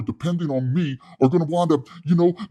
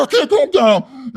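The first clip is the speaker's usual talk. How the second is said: high, loud, slow shout; hothead can't calm down; 11 semitones higher, 4 dB louder, slower than usual. Retold or imitated. Wes yelling back at his cellmate, loud and slow. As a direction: refuse to calm down, all worked up.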